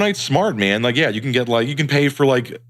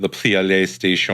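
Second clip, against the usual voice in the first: put-on slow, drawn-out pseudo-French accent; seductive mock French; slower than usual. Co-host echoing the console name, mock French accent. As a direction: purr it in a bad French accent. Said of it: "It was, like, kind of French".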